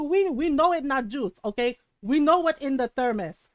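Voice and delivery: imitating a knowing Filipino mom; mildly accusing, in a put-on accent; mom calling out. Mom revealing what is in the thermos, calling out. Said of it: "my mom called her out".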